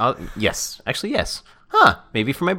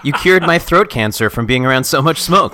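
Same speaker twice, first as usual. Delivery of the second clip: high, loud laughing praise; 9 semitones higher, 8 dB louder than usual. Real, not acted. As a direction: giggle through the teasing. Laughing through the banter.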